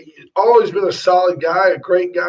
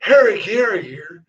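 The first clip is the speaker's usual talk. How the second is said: lightly voiced announcer; a hint of Will Ferrell as Harry Carey; Harry Carey impression. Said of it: "like Will Ferrell".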